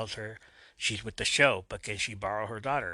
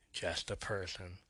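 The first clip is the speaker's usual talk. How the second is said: much softer, lower closing words; soft whisper; 3 semitones lower, 9 dB quieter than usual. A narrator's reading. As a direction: let it sink in quietly. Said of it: "he whispers softly".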